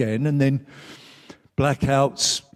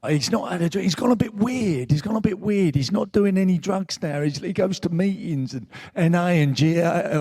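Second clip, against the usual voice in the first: lightly voiced East End mother-in-law, urging; 2 semitones higher than usual. Mother-in-law sending him to the therapist, lightly imitated urging. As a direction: push the advice like a concerned East End relative. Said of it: "She said in her language, she was a East Ender".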